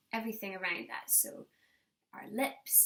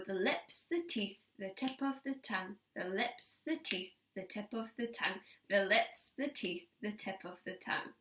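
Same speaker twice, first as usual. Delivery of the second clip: tongue twister recital; 3 semitones lower, 5 dB quieter than usual. Shown as a demonstration. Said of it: "repeat it over and over again".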